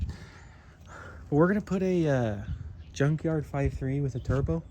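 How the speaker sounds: playful, lightly put-on Canadian accent. Car vlogger announcing the junkyard engine plan, mock Canadian accent. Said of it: "doing a Canadian accent".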